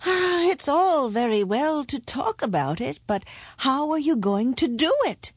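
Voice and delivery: put-on a touch of gloom from an old cobbler; lightly voiced doubtful pessimist; gloomy cobbler. A narrator's reading. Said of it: "the wise cobbler said gloomily".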